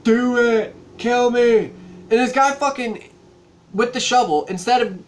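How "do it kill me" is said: put-on dying girl. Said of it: "she's like".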